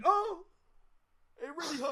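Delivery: high, loud hammed-up cry of fake pain; mock pain yelp. Shown as a demonstration. GM shows the player a fake pained yelp, hammed up and high. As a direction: overplay a fake injury, squeaky.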